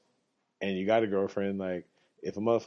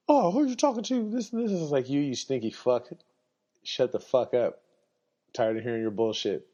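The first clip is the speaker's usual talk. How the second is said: homeless man insult; 6 semitones higher than usual. Retold or imitated. Homeless man insults the speaker, hammed-up high rant.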